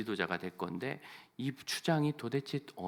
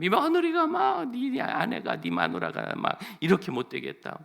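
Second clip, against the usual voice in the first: complaining mother-in-law; 12 semitones higher, 5 dB louder than usual. Retold or imitated. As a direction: whine about the daughter-in-law to her son. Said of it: "며느리 흉을 하면".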